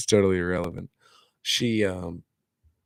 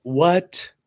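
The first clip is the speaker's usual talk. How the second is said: surprised; 10 semitones higher, 6 dB louder than usual. Real, not acted. Hears the news about Trevor.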